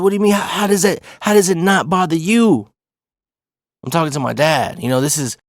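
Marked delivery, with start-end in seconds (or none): 0.0-2.7 higher-pitched, baffled retort; acting out a bewildered son; incredulous. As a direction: push back in disbelief. Son disbelieving dad's calm advice.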